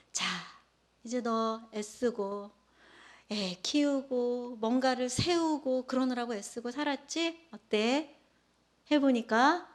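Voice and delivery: lightly voiced God, soothing the tired listener; tender voice of God. God gently comforts a weary middle-aged believer, slow and tender. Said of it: "하나님께서".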